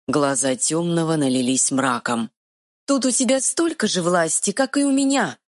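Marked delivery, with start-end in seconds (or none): 2.9-5.4 high, quick fairy voice; tiny fairy retort. Acted. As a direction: snap back like a tiny fairy. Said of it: "отпарировала фея".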